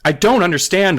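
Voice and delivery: high, loud cry of confusion; mother's cry. Acted. Mother to the narrator, crying out. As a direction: cry it out, bewildered. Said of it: "Alicia's mother cried".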